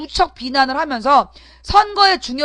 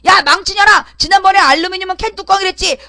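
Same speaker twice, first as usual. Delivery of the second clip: higher and louder sneering jeer; mock taunting; 4 semitones higher, 4 dB louder than usual. Host voicing a troll taunting her, mock jeer. Mocking hostile commenters.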